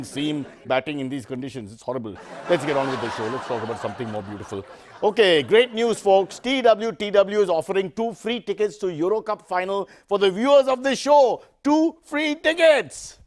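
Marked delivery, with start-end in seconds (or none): 5.0-13.2 higher, sing-song promo read; fake announcer hype. Host tricking viewers with a fake giveaway, hyped promo. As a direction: sell the giveaway like a game-show host.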